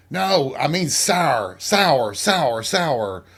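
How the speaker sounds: "sour" repeated with falling emphasis each time; insistent repetition. Retold or imitated. Dad repeating himself to confused child, insistent falling "sour". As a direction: hammer each "sour" as if that explains it. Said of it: "as if repeating the word would make me understand".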